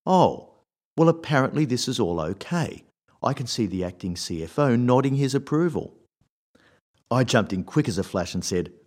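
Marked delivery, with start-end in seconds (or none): 0.0-6.0 mock-approving boss, pitched higher; higher-pitched, lightly sarcastic retelling. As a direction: imitate a boss's mock acceptance, with a loud, high "Oh". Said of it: "said in a mock tone".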